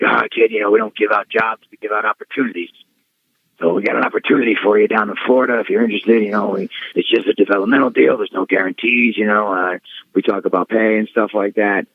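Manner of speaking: a hint of a slick old recruiter; Laurinaitis impression. Laurinaitis pitching the developmental deal, lightly voiced. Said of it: "he gives me the old".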